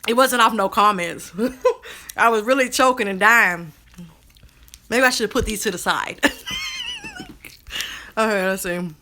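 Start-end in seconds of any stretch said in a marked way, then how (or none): 1.7-3.7 talking through light laughter; laughing. Real, not acted. Laughing about nearly choking. 6.2-7.3 a soft, breathy laugh, very high. Real, not acted. Laughing at her own snack.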